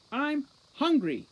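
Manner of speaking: loud, high, slow shout. Acted. Holly shouting at Juliet for food, loud slow demand. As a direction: bellow it at the guard. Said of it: "shouted Holly".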